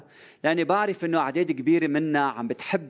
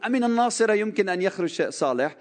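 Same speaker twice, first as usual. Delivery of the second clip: mock quote; 5 semitones higher, faster than usual. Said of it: "تصوروا واحد عم بيقول".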